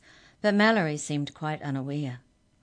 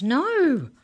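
very high, loud shocked no; horrified cry; 11 semitones higher, 10 dB louder than usual. Acted. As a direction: shriek it in disbelief. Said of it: "Mallory gasped".

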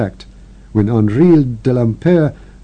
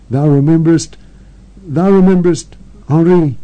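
dying sister's urgent confession; 4 semitones higher than usual. Acted. Dying sister begging to be heard, pressing on. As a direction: force the words out before death.

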